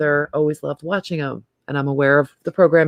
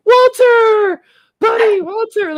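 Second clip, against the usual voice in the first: much higher, louder doting owner call; calling the dog-cat; 6 dB louder, much slower than usual. Retold or imitated. Truck owner calling his cat Walter, high doting call. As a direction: coo at the cat like a beloved dog. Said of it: "it's like".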